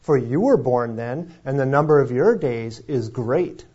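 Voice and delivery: lightly sarcastic, needling. Retold or imitated. Preacher voicing God needling Job, mildly sarcastic. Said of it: "he says very sarcastically".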